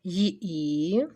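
"Ї-і" split into a glide and a held і; careful, drawn "Ї-і"; two sounds. Shown as a demonstration. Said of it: "це два звуки завжди".

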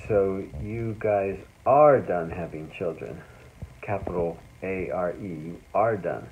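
slow emphatic ARE, drawn out; stressed are. Retold or imitated. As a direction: lean hard on are, slowly. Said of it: "then she said".

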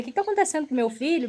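fast, mushy, half-drugged words; slurred and groggy. Retold or imitated. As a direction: mumble it like the anesthesia is kicking in. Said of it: "Mas eu tava falando tudo enrolado".

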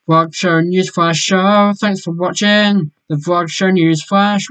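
slow, drawn-out sign-off; announcer outro. Pretend. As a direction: stretch it like a jingle. Show outro jingle.

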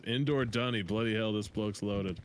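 lightly done Australian accent, mock amazed; a casual Aussie bloke impressed by the house, Australian accent. Friend marveling at the rich man's bathroom, mild Australian accent. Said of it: "Someone's from Australia".

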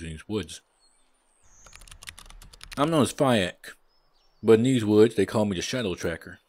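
lightly voiced huntsman with a muddled accent; wobbly accent between Irish and southern; put-on huntsman accent. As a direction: play a woodsman in an uncertain put-on accent. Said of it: "What is your accent? Are you, are you Irish?".

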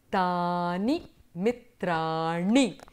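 tani mitrani, each syllable drawn out slowly; slow model answer. Shown as a demonstration. Teacher modelling the plural answer for students, slow and deliberate. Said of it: "draw your attention again to the fact".

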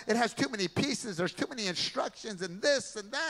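a hint of a sulky child; whiny complaining boy. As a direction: whine like a spoiled little boy. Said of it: "He was angry".

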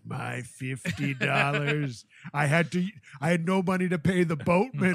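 haunt him with a stretched-out wail; wailing ghost. Acted. Priest's ghost nagging Steve over a debt, wailing. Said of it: "you're gonna see him as a ghost".

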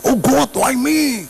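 slow, high, wailing Oh God why me; mock despair, drawn out; complaining to God. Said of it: "Biasanya ada ngomong". (mengeluh lambat, nada tinggi)

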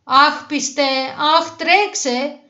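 high, drawn-out urgent calls; frightened animals calling for rescue; pleading shouts. A narrator's reading. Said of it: "φώναζαν τα ζωάκια". (αγωνιώδεις φωνές για βοήθεια)

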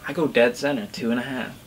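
speaking through fingers; slightly muffled by hand; hand over mouth. Real, not acted. Seen 0: Left speaker's fingers cover his lips and nose throughout.

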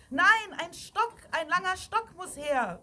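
high, loud correction; alarmed, emphatic call; urgent shout. A narrator's reading. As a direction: overrule them in an emergency. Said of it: "rief jemand anders".

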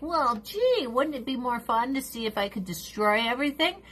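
airy, sarcastic impersonation of a careless friend; sarcastic mock innocence. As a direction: put on a mock-innocent "gee whiz". Mockingly voices friend's thinking.

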